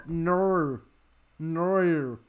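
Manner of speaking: "No" with a stretched Australian vowel. Acted. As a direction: draw out "No" as an Australian would. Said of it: "who can do the Australian no".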